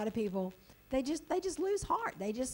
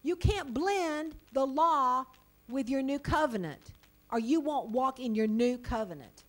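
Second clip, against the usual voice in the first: forceful preaching; 6 dB louder than usual. Real, not acted. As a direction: hammer the point home.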